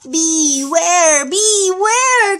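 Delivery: calling out loud and high; loud warning call. Acted. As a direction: cry a warning to the bear. Bees warn the bear.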